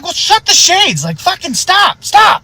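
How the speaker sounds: very high, strained outburst; panicked yelling. Retold or imitated. Deputy answering the old man's warning, shrieked high panic. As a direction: cry out in exasperated panic.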